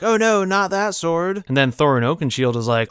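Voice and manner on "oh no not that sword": high, slow wail; mock dread. Goblins seeing Gandalf's sword, high mock-fearful moan. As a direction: draw out the alarm theatrically. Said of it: "they're like".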